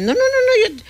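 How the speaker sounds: high, loud no no no; hammed-up busy executive refusing; emphatic refusal. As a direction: shut the idea down hard. Executive refusing to stay longer.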